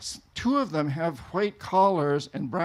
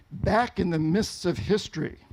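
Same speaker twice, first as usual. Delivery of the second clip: storyteller's opening. Shown as a demonstration. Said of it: "And it goes like this".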